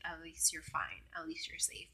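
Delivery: gentle reassurance. Retold or imitated. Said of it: "He's like".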